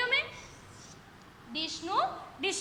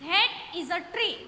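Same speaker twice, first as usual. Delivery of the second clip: slow model sentence; much slower than usual. Shown as a demonstration. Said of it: "કે પેલું ઝાડ છે".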